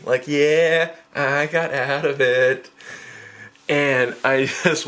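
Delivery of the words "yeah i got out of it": drawn-out, smug boast; cocky. Retold or imitated. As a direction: stretch it out, pleased with yourself. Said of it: "all cocky".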